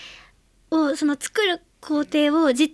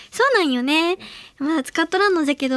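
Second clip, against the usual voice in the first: casual Hiroshima-ben, a bit quicker; light Hiroshima dialect demo. Shown as a demonstration. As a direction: slip into easy Hiroshima dialect. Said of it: "こういう感じですよね".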